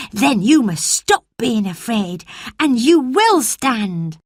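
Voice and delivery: a lively country lad reassuring his friend; cheerful boy Dickon. Acted.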